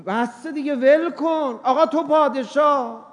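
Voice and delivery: high, laughing mock praise; mock flattery. Preacher mocking the inner voice that excuses him, high and laughing. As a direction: hand the ego a sarcastic crown.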